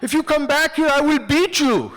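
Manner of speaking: high, loud yelled threat; shouted high warning; angry threat. Retold or imitated. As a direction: threaten him while chasing. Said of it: "he's following after me".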